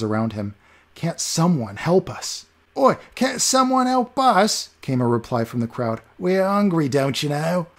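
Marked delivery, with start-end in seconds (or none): 2.7-4.7 very high, slow, louder; mock his plea in a whiny beggar voice; mocking beggar echo. 6.2-7.7 whiny beggar. Acted. Beggar whining.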